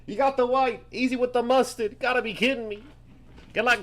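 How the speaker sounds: real excited yelling; excited shout. Real, not acted. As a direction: shout it out in delighted disbelief. Reacting to a white jersey pull.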